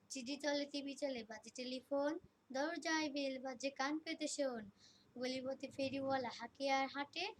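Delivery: loud, rhythmic verse recital; projected school-stage recitation; rhyme recitation. Acted. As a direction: declaim the rhyme at full volume, line by line. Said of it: "আমি একটি ছড়া পাঠ করব".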